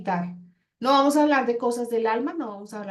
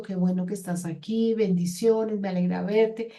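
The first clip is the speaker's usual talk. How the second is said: pleasant tone. Shown as a demonstration. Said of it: "tener un tono de voz agradable".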